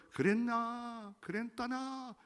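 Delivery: high, slow mock Gyeongsang drawl; gruff Gyeongsang husband. Preacher imitating a blunt Gyeongsang husband.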